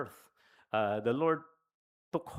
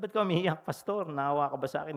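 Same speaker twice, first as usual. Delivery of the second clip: higher and louder, startled question; surprised concern; 4 semitones higher, 5 dB louder than usual. Retold or imitated. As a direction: ask it as if caught off guard. Father asks why pastor cries. (gulat na tanong na mas malakas)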